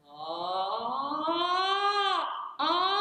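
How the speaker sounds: rising siren ending high and loud; siren into head voice. Shown as a demonstration. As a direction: siren up through the break. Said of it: "turns into middle voice".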